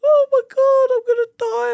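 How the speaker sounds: very high, loud wail; hammed-up high-pitched panicked whine; mock crying. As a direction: squeal it like a terrified victim, mimicking.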